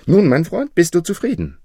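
high, loud, proud question; triumphant. A narrator's reading. Young thief showing Hassan the stolen purse, triumphant. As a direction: ask it in triumph, pitched well up. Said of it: "Triumphierend hielt er Hassan den Beutel entgegen".

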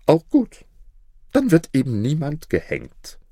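hoch und laut ausgerufen; laut rufend. A narrator's reading. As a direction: ruf es gleichgültig laut aus. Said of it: "rief der Statthalter". (laut gerufen)

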